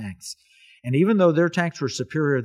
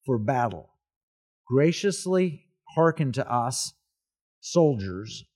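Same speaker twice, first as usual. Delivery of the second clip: measured, solemn reading of a prayer; formal prayer reading. Acted. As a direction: read it out formally, phrase by phrase. Reads out Patton's prayer.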